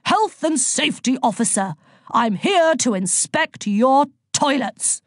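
high, overbearing official voice; formidable inspector on a mission; officious inspector. A narrator's reading. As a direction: announce your authority with pomp. Officious inspector announces herself.

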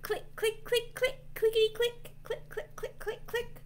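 high, quick clicking syllables; clicking dominoes. Pretend. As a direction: imitate toppling dominoes clicking. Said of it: "making a noise that goes".

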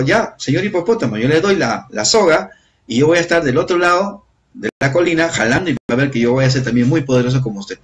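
hoch und selbstbewusst als kleine Schildkröte. Acted. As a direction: versichere dem Nilpferd keck deinen Sieg. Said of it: "Entonces la tortuga le dijo".

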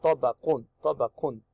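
"Tabakun" said clearly, syllable by syllable: ta-ba-kun; teacher modelling "tabakun" for the class; pronunciation demo. Shown as a demonstration. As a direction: spell out "tabakun" by sound for learners. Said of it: "the plural form of tabak".

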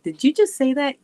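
acted disbelief. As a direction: play someone taken aback by a cheeky remark. Acting out a shocked listener's reaction.

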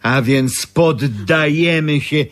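slow, contemptuous whisper; scornful whisper. Acted. To Mira, despising her surrender in a slow whisper. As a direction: hiss it out in disgust, slowly.

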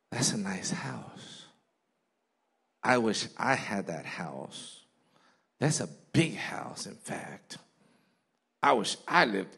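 whispered longing, slow and hushed; envious whisper. Retold or imitated. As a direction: breathe it like a wistful daydream. People wishing for mountain houses.

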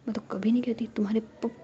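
ordinary delivery, nothing marked

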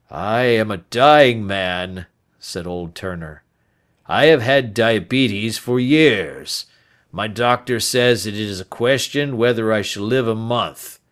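a sick man laying bare his fate; weary dying man. Acted. Turner confesses illness.

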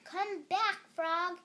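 loud, high pleading call; shouted. A narrator's reading. Toad spinning in the dark, high pleading shout. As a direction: shout for a friend to return. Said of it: "he shouted".

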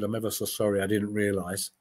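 softly retold polite apology. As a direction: apologise meekly and quietly to the officer. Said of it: "I was very polite".

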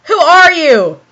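mildly aghast, drawn out; choked horror. A narrator's reading. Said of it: "words he could choke out".

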